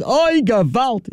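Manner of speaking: slow, high drawn-out oi gewalt; mock-despairing Yiddish cry, stretched long; Yiddish lament. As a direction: wail it like an old Yiddish lament. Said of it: "he spoke Yiddish".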